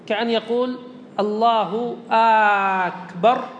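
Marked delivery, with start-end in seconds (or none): 1.2-3.4 "أكبر" opened with a very long "aa", slow and questioning; مد همزة أكبر. Shown as a demonstration. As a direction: stretch the first vowel of "أكبر" to "aaakbar". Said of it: "أو همزة أكبر". (مدّ الهمزة في أول "أكبر" مدًّا طويلًا)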